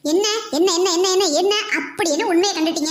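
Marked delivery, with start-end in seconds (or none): 0.1-1.5 repeated teasing with a laugh; laughing mockery. Aunt mocks the niece's song with a laugh. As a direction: laugh it off while needling.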